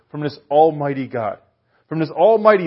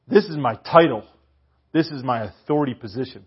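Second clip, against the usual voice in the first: louder, proclaiming as the God-man; declaring Jesus; 3 semitones higher, 5 dB louder than usual. Retold or imitated. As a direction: announce your authority with conviction.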